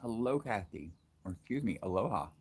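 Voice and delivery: talking around a mouthful of ice; words muffled by chewed ice. Real, not acted. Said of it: "got a mouthful of ice".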